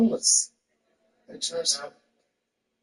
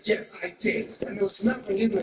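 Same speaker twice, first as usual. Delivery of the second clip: higher-pitched, mock indignant wife; mad wife; 5 semitones higher than usual. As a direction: imitate the wife confronting her husband. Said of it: "she was mad at me".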